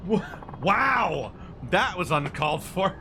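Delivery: high, loud, gushing photographer voice; an over-eager paparazzo spotting his big shot; excitable photographer. Acted. Mac voice again.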